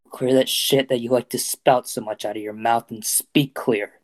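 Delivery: slow, deliberate taunt; slow repetition. Acted. Deku repeating himself to Kacchan, slow deliberate taunt. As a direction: spell it out slowly to provoke. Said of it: "Deku repeated himself slowly".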